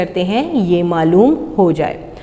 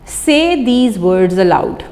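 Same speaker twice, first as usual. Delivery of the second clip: slow, deliberate classroom reading; slow instruction; much slower than usual. Shown as a demonstration. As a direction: spell out the instruction slowly. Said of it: "इन अल्फाज को ऊंची अल-, आवाज़ में कहिए".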